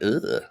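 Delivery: short groan of mild revulsion; retold "ugh" of disgust. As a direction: imitate a grossed-out reaction. Reaction to skin peeling off.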